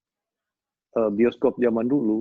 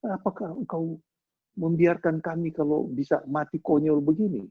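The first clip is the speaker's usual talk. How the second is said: higher-pitched mock protest; reproachful disciples; 6 semitones higher than usual. Disciples rebuking sleeping Jesus in the storm, higher-pitched reproach. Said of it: "Mereka menegur Yesus".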